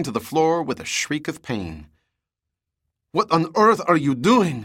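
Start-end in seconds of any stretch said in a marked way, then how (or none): 3.1-4.6 high, loud, pained outcry; pained cry. A narrator's reading. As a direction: cry out in pain and shock. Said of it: "she cried".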